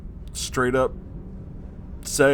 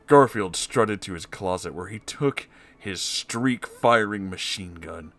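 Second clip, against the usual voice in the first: ordinary talk, nothing marked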